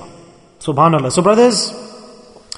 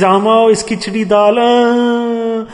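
slow, tired letdown at the dish; a mild sigh of let-down over dinner; weary disappointment; 4 semitones higher, much slower than usual. Retold or imitated. Tired husband sees the dinner, mildly let down. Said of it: "exhausted and frustrated".

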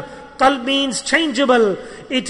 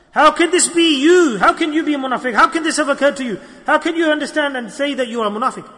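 higher, louder retold protest; shocked disbelief; 4 semitones higher, 4 dB louder than usual. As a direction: voice a friend's incredulous questions, raised. Companion reacts in shock to confession.

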